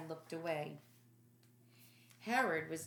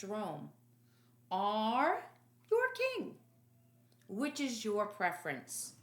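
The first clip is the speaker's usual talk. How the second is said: Pilate to the crowd; 2 semitones higher, 3 dB louder than usual. Acted. Pilate offers the crowd a choice.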